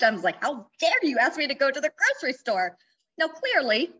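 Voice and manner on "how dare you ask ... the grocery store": mock indignant, a bit louder; retold outrage. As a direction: act out the old outrage, half laughing at it. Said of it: "I was enraged".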